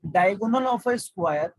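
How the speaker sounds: very slow, word by word; slow reading. Shown as a demonstration. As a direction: read the question out slowly. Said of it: "आराम से पढ़ रहा हूँ". (बहुत धीरे पढ़ना)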